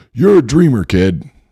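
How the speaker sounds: very high, shrill screaming yell. Retelling what a counselor said to a sixth grader: imitating someone screaming. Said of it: "the counselor screaming at me".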